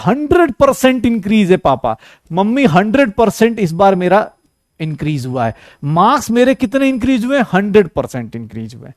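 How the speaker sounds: proud boast of hundred percent increase; confident bragging student telling mom and dad; the right way. Shown as a demonstration. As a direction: sell it to the parents like a triumph. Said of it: "सीधा बोलना होता है".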